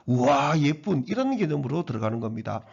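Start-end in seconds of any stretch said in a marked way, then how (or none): 0.1-1.0 a loud, bright "wow, pretty"; exclamation. Shown as a demonstration. Teacher showing an exclamation to the class, loudly amazed. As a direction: gush over how pretty she is. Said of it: "이거를 감탄한다".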